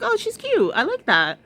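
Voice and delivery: high, bright approving gush; lightly voiced sweet praise; mock approving. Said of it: "which I was like".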